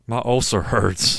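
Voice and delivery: slow, understated complaint; unemotional imitation. Co-host imitates the tame boss, slow and unemotional. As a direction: say it slowly with no pain in it. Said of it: "He literally did sound like that".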